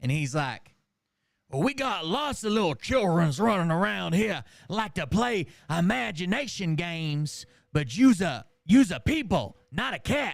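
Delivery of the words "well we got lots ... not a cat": loud, exaggerated, over-the-top put-on Southern drawl. Retelling a movie, voicing a man talking to a girl who says she's a cat, exaggerated fake Southern accent. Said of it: "that's the way the accent is".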